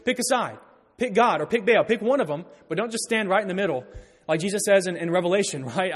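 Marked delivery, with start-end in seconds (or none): 0.0-3.8 bold commanding. Retold or imitated. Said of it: "notice how bold he is".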